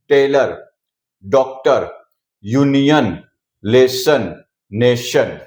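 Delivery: टेलर, डॉक्टर, यूनियन with a short uh in the last syllable; example words, schwa endings. Shown as a demonstration. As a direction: read each word alone, falling, endings like लेसन with a neutral uh. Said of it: "ओ को हमने अ pronounce किया है".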